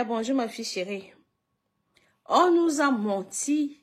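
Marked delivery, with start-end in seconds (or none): 2.3-3.8 louder, higher, slowing on menti; loud indignation. Real, not acted. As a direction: drag out "On nous a menti" in protest. Repeating the complaint louder.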